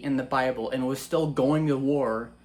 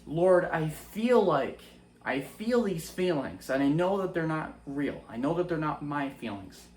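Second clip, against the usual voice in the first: sincere prayer. Shown as a demonstration. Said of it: "You should say".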